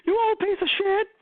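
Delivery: hammed-up rude yell; mock insult yell. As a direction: spit the insult for effect. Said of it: "than being like".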